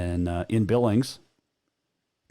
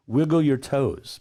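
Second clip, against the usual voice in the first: Nicole Kidman impression; 4 semitones higher, slower than usual. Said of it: "In Nicole Kidman's voice".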